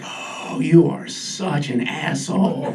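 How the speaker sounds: slow, scornful dog, half breathed; disdainful Chihuahua, lightly voiced; snide dog voice. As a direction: sneer it out low and slow. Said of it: "with that Chihuahua look like".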